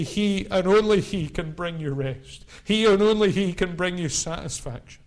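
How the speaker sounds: firm build on he and only he; emphatic preaching. Acted. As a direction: stress on only, pushed out firmly. Preacher repeats the line.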